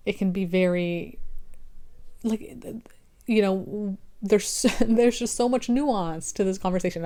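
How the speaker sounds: halting, broken-off stammer; stuttering. Real, not acted. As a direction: stumble over the words. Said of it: "I'm like, stuttering".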